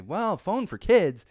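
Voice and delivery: high, slow doubtful question; mock disbelief, drawn out slowly; skeptical question. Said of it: "And you say".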